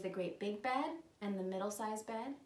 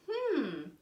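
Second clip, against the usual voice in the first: pondering; 3 semitones higher, 4 dB louder than usual. Pretend. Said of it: "So we're gonna think".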